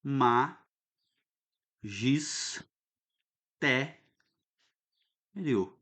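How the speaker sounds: "Ma, gis, té, rio" with long gaps between; syllable by syllable. Shown as a demonstration. Teacher separating syllables for the class, slow and detached. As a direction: say each syllable of "magistério" on its own. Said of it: "Vamos separar a sílaba aqui".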